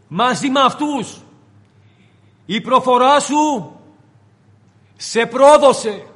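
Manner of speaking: the maid unmasking Peter, rising to a loud accusation; accusing servant girl. Retold or imitated. The servant girl exposing Peter's Galilean accent, building from hushed to loud. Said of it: "του λέει η, η δούλη".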